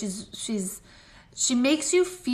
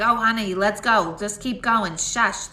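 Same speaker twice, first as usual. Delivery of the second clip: imitating a brash, impatient mother, louder; no-filter bossiness; 5 dB louder than usual. Medium relaying a mother who cuts her off, no filter. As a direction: hurry them along and shush them, loudly. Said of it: "she's very, like, no filter whatsoever".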